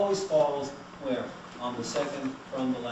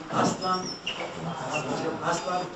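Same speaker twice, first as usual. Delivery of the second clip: Aztlan stressed on the first syllable, AZ-tlan; Nahuatl stress; 4 semitones higher, slower than usual. Shown as a demonstration. Teacher leading the class, AZ-tlan stressed on first syllable. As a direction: model AZ-tlan clearly for repeating. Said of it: "pronounced in Nahuatl as, everyone".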